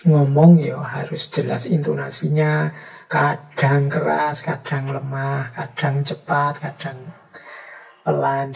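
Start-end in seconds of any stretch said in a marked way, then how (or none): 3.1-8.6 varied delivery demo. Shown as a demonstration. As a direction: show the changes of pace and volume. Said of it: "intonasi dan kecepatan".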